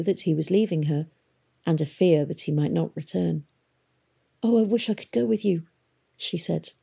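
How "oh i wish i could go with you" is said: wistful wish. A narrator's reading. Daughter longing to go.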